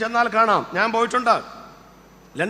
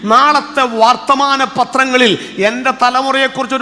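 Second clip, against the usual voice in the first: loud, slow, drawn-out plea to God; fervent prayer; 3 semitones higher, 9 dB louder, slower than usual. Real, not acted. Preacher leads the standing congregation in prayer for their children, loud fervent plea. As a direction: pray it out at full force, stretching each phrase.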